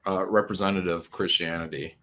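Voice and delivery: mock compliment, dry sarcasm; sarcastic. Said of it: "That sarcasm, guys".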